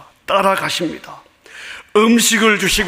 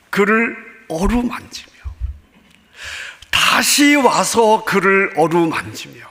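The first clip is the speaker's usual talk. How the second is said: 어루만지며 drawn out slowly and gently, tender emphasis; 3 semitones higher, slower than usual. Shown as a demonstration. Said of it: "두 번 반복되는 표현이 있습니다". (어루만지며를 천천히 부드럽게 강조)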